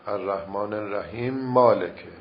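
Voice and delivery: «الرحیم مالکه» with the first mim merged into the second as one doubled mim. Shown as a demonstration. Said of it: "میم اول رو ادغام بکنه در میم دوم".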